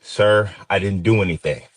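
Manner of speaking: held-back, steady plea; controlled, careful. Retold or imitated. To the cop holding a gun, a careful, controlled plea. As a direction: keep your breath even and say it politely. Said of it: "watch my breath and say".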